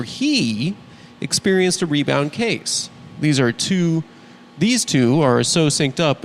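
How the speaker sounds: measured satirical news read; mock news monologue. Host opens the show with the day's news, mock anchor read.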